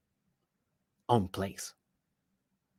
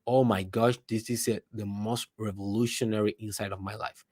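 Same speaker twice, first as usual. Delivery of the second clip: soft, hushed amazement; quietly marvelling, well under the voice; awed believer; 3 semitones lower, 7 dB quieter than usual. Acted. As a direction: drop low and quiet, as if struck by a revelation. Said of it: "versus the guy that say".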